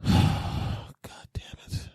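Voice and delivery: whispered curse on a long sigh; breathy, drawn-out frustration; exasperated sigh. Acted. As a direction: sigh it out slowly, voiceless. Sighs alone in exasperation.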